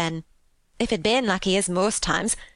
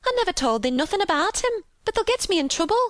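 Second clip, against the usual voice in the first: high, fretful wailing; tearful panic, pitched high throughout; half crying; 13 semitones higher than usual. A narrator's reading. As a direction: lament it in a high Yorkshire maid voice. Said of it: "half crying".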